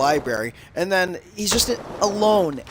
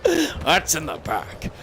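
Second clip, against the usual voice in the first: slow, drawn-out spooky imitation; weird old-man voice; slower than usual. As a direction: stretch it out in a put-on eerie voice. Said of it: "doing this weird voice".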